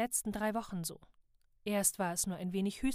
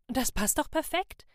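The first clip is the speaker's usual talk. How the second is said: bright and eager; excited; 6 semitones higher, 7 dB louder than usual. A narrator's reading. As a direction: burst out happily. Excited elf finds cure.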